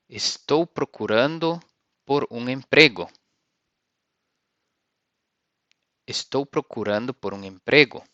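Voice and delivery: Estou procurando por um emprego in Portuguese; Portuguese sentence. Shown as a demonstration. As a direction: model phrase for the class. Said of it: "You can say".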